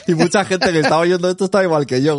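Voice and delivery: talking through laughter; giggling while speaking; laughing. Real, not acted. Laughing at friend's confusion.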